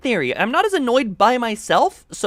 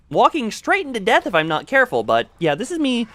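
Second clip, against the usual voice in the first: higher pitched voice; 3 semitones higher than usual. Shown as a demonstration. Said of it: "talking more in a normal way".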